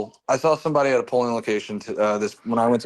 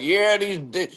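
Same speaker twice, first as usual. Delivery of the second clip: Southern redneck voice; 7 semitones higher than usual. Retold or imitated. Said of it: "who was talking about".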